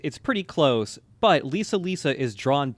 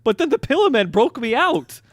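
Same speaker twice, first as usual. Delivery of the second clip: Wired Beck voice; 11 semitones higher, 7 dB louder than usual. Acted. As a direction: draw out a strange, silly character voice. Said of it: "busted out my Wired Beck impression".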